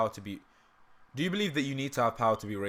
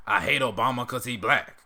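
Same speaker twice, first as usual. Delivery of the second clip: put-on louder, preachy old-bigot rant; Uncle Ruckus impression; 5 dB louder than usual. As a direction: spit it out as a grumpy old bigot. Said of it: "the Uncle Ruckus impression".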